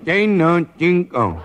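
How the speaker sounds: fed up, insist on cinco; annoyed correction. Acted.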